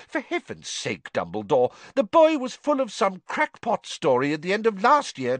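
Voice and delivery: high, rising outrage; angry minister. A narrator's reading. Fudge scornfully attacking Dumbledore, high and rising. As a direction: build scorn to the end.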